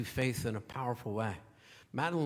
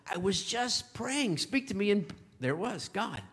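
higher and slower, in wonder; amazed recollection; 6 semitones higher than usual. Retold or imitated. Pastor voicing his friend about the truck, amazed. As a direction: let the wonder lift the words. Friend recalls her prayer answered.

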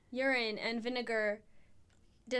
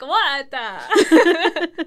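louder, higher mock shout with a laugh; imitated mom yell; 4 semitones higher, 16 dB louder than usual. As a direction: play the startled mom yelling. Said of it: "she's like".

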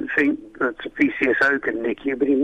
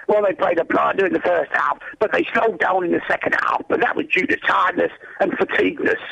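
put-on unconvincing Scouse accent, quoting an interview; bad Scouse accent. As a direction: attempt a Scouse football manager. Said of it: "can't do a very good Scouse accent".

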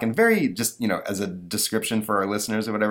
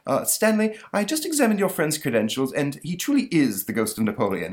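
sheepish monster voice; 7 semitones higher than usual. Acted. The monster gives in.

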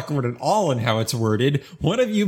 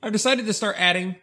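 William Shatner; 4 semitones higher than usual. Acted. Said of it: "stop talking like William Shatner".

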